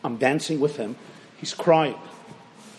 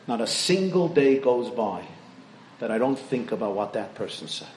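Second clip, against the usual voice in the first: quiet tearful; 7 semitones lower, 3 dB quieter than usual. Retold or imitated. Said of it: "He looks at me crying".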